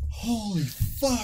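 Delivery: slow, high, laughing; laughing disbelief. Real, not acted. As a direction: gasp it out through laughter. Reacting to shocking story.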